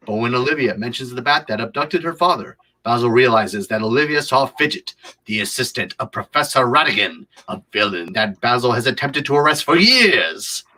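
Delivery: storyteller building to a big last word; theatrical narration. Acted. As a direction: narrate it, then draw out the final word dramatically. Builds to dramatic synopsis climax.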